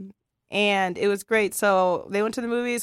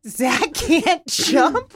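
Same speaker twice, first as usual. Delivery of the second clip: put-on concerned child; 6 semitones higher, 7 dB louder, much slower than usual. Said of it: "he was concerned".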